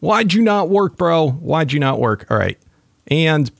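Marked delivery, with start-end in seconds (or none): 0.0-1.3 drawn-out, high amazed gasp of words; slow, high astonished exclamation. Real, not acted. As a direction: stretch it out in delight. Excited over huge yield.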